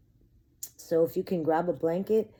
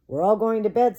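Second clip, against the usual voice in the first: put-on child voice; 6 semitones higher, 8 dB louder than usual. Child announces pointedly.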